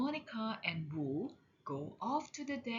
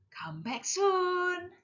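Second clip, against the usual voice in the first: friendly goodbye; 10 semitones higher, 4 dB louder, slower than usual. A narrator's reading. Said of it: "Sonny says".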